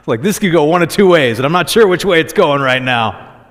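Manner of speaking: unsure which way this goes, keyed up; retelling a tense moment with a friend, nervous and excited; nervous excitement. Retold or imitated. Nervous thought at coffee shop.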